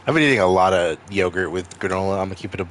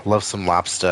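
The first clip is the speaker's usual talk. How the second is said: mock Maine accent, dropped r in lobster. Maine native playing up the stereotype, mock Maine accent. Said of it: "like, the Maine stereotypes".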